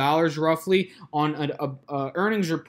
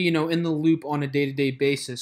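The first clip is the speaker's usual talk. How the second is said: normal talking voice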